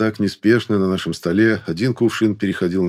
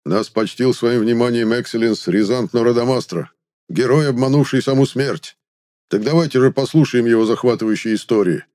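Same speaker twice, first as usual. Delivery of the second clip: grand entrance announcement; 4 semitones higher than usual. Acted. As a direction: herald a guest's grand arrival. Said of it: "громогласно объявил Пригельд".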